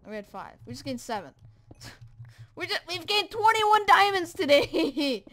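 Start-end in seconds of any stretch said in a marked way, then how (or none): 2.5-5.2 loud, slow, triumphant yell; excited shout. Real, not acted. Gamer shouting the diamond count to viewers, triumphant. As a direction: bellow the haul with glee. Celebrating twenty-one diamonds.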